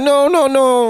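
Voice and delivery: high, quick mock protest; mock French denial. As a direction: play the flustered Parisian. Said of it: "they're like".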